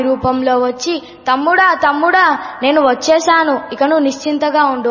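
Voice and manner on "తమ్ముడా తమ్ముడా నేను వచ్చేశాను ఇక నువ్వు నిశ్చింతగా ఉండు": loud, high, quick brotherly reassurance; calm the little brother eagerly; Krishna comforting the scared boy; reassuring Krishna. Acted. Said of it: "ధైర్యం చెప్పాడు".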